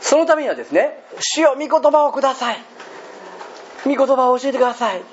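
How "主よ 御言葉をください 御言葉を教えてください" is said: prayerful plea. Pretend. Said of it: "と求め続けることです。".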